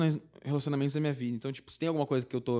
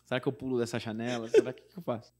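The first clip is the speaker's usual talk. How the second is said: laughing despair; 5 dB quieter than usual. Retold or imitated. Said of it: "falei assim".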